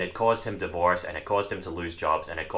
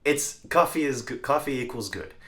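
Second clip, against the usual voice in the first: craving brain voice; 7 semitones higher than usual. Retold or imitated. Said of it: "my brain would be like".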